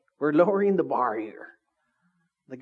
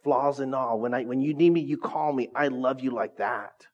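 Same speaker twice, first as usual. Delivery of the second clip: sincere love; 3 semitones lower than usual. Retold or imitated. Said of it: "when you love somebody to say".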